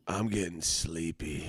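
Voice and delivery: slow, soft sleepy mumble; drowsy murmur. Retold or imitated. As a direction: fade off like you're nodding off. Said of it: "Jen's going".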